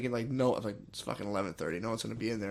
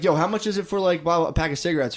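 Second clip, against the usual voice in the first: loud imitation; 4 semitones higher, 4 dB louder than usual. Imitating friend asking price.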